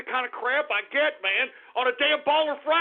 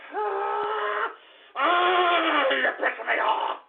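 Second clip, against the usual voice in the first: mock crying rant; 3 semitones higher, much slower than usual. Host breaks into a fake sob.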